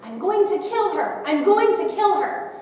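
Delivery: loud, high, slow acted scream; drawn-out furious yell, retold; screamed threat. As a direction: imitate a raging man yelling threats. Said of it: "screaming at the top of his lungs".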